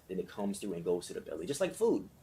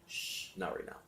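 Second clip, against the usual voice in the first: gentle whispered hush; whispered shush; 10 dB quieter than usual. Shown as a demonstration. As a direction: breathe it out as a soft whisper. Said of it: "You don't have to say it out loud".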